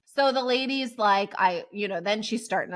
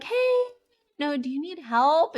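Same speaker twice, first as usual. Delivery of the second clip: much higher, chirpy hey; bright eager offer; 5 semitones higher than usual. Retold or imitated. Asking the women in the tent if they need help, eager and high. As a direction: greet them like an eager helper.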